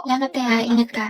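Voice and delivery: quietly thankful and shy; shy girl thanking a friend softly; soft thanks. Acted. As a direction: murmur a small goodbye. Soft-voiced Clarice.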